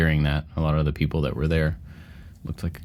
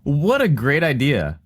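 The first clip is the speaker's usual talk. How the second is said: mock enthusiasm; 7 semitones higher, 4 dB louder than usual. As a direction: play up being bowled over by the idea. Hammed-up reaction to a joke suggestion.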